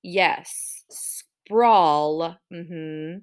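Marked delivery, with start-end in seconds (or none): 0.9-2.4 SPRAWL stretched to its final L; ul sound at end. Shown as a demonstration. Teacher checking endings with pupils, stretched out. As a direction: draw out "Sprawl" so the ul is heard. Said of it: "have an ul sound at the end".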